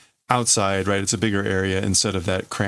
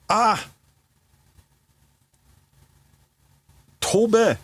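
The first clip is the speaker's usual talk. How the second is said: character's cry; 12 semitones higher than usual. Acted. Tetsuo crying out to leap, sharp call. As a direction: cry out and command him to fly.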